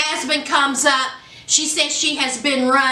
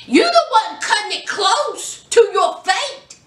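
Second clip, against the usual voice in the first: scolding; 5 semitones higher than usual. Real, not acted. Scolding man on show.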